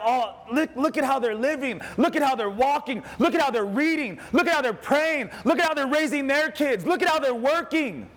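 high, eager admiring list; admiring exclamation. Retold or imitated. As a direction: point out each example with rising enthusiasm. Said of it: "I'm striving to be like".

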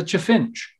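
chaffinch reshaped to sound a bit posh; posh altered pronunciation. Shown as a demonstration. Birdspotter pointing out a bird, posh altered chaffinch. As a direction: say chaffinch as a playful posh word. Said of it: "sounds a bit sort of posh".

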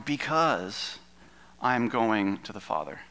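"because" leaned on and held, falling; weight the word "because", then let it fall; stress on because. Shown as a demonstration. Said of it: "Emphasis on".

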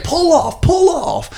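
hammed-up angry order to pull over; mock yelling. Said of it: "he's like".

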